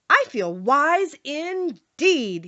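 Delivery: the Scarecrow answers Dorothy, slow and earnest. Acted. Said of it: "he answered earnestly".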